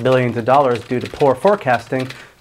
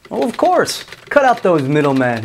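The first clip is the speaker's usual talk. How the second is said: sarcastic; 3 semitones higher than usual. Acted. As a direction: act like it's the most natural thing. Sarcastic reaction to buyout.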